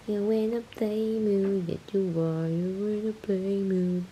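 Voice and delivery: slow singsong pet voice. Real, not acted. Owner asking kitten if it wants to play, singsong. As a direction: drawl it sweetly at the kitten.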